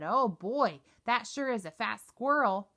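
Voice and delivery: loud, delighted little-brother voice; little brother Cody echoing, excited; thrilled kid. Acted. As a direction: gush over the fat squirrel.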